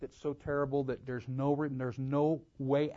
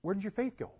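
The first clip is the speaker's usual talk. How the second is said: mild, pitched-up chiding; not rebuking; 7 semitones higher, faster than usual. Acted. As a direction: ask it gently, without condemning. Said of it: "He wasn't condemning him".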